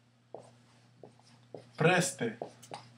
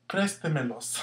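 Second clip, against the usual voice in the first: "préstemelos" with the accent on "prés"; careful demo of "préstemelos", stressed at the front; stress on first syllable. Shown as a demonstration. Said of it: "that's where our accent go".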